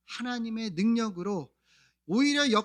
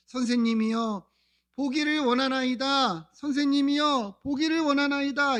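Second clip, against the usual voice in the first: imitated calling out; 4 semitones higher, 3 dB louder than usual. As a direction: plead as the blind man, voice lifting. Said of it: "소리치르는 바디메오". (간청하며 외치는 맹인을 흉내 내어)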